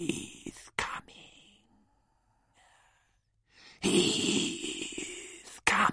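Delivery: very slow, snake-like hissing whisper. Reading a play aloud, a voice at the back: hissing Parseltongue whisper. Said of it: "Parseltongue whispers around everyone".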